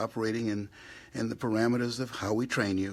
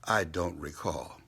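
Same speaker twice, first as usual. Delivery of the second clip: mocking politicians; 4 semitones lower than usual. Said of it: "why they say it like that".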